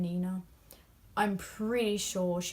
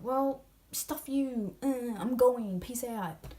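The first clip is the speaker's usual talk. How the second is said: higher, slow dismissive brush-off; mock huffy exit; 4 semitones higher, 4 dB louder, much slower than usual. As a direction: storm off with a shrug. Angry Kaz voiced.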